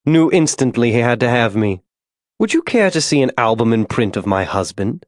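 a hint of genteel lady, reminiscing; lightly voiced proud wife. Molly boasts of her husband.

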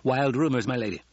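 quick, dismissive interjection; spoken quickly. Acted. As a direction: cut in briskly to dismiss it. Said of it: "Kynes spoke quickly".

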